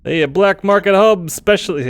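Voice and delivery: a lightly done Chicago accent, hammed up. Shown as a demonstration. A streamer tries a Chicago accent while reading. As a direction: put on a mock Chicago accent. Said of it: "I can do Chicago".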